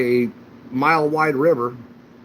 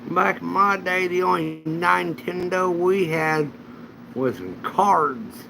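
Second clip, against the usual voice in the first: put-on old man voice; 4 semitones higher, slower than usual.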